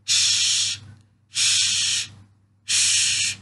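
ش as a voiceless shh; a hushing shh; isolated sh sound. Shown as a demonstration. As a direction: hush ش out with no vowel. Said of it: "چنین تلفظ می شود".

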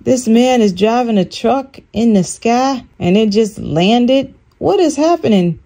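mildly acted astonishment; retold shock. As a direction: retell your bewilderment, pitch climbing at the end. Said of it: "completely in shock".

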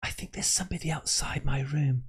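half-hearted scared whisper-talk; mock scared girl voice.

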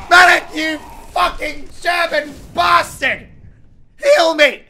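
high, loud angry yell; furious shout. Real, not acted. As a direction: scream at the useless healer. Furious at a medic ignoring him.

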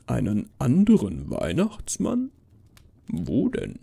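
lightly voiced Santa, puzzled swoops in pitch; baffled Santa. Santa asking the girl about a rival, baffled. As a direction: question it in mild bewilderment.

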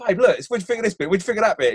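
fast, eager pestering of his wife; rushed eager pestering. Retold or imitated. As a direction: rattle off the questions eagerly. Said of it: "I'll be like".

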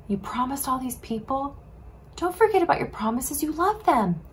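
soft, earnest plea; pleading. Acted. Moses pleads with God to spare the people, soft and earnest. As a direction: quietly beg God for mercy. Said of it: "pleaded with God".

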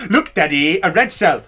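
lightly voiced child calling daddy; mock child. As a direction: tug at daddy's sleeve. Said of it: "Or better yet".

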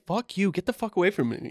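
high, fast droid voice. Retold or imitated. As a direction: say it like an angry beeping robot. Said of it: "he's beeping constantly".

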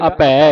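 ਅਭੈ said as abhai, ending in ai; careful pronunciation. Shown as a demonstration. Teacher corrects how the congregation says ਅਭੈ. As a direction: close ਅਭੈ on an ai vowel. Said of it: "ਸੰਬੰਧਕ ਲਾ ਕੇ ਉਚਾਰਨ ਹੋਵੇਗਾ".

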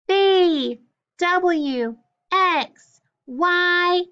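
high, loud letter chant. Shown as a demonstration. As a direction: call out each letter loudly, high and falling. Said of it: "say the consonants loud".

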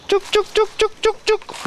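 high singsong chook chook call; calling chickens. Real, not acted. Calling the hens for eggs.

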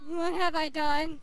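slow, loud half-crying shout; shouted despair. Real, not acted. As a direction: wail it out slowly. Repeats, shouted laughing cry.

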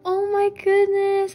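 gasp, then a loud high squeal; real excitement. Real, not acted. Collector whose awaited cards arrived, real excitement. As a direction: gasp and cry out in delight. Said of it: "I was so excited for these cards".

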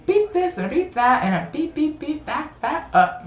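hammed-up censored rant; mock angry man. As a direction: sing the self-censored beeps up high. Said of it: "And he goes".

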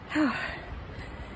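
heavy exhausted sigh out; tired sigh. Real, not acted. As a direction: blow out a weary breath. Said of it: "Definitely hard".

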